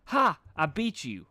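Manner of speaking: high, loud triumphant yell. A narrator's reading. Rainbow Dash crowing at Gilda after winning, yelling. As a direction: shout it like you just won the race. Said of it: "yelled Rainbow Dash".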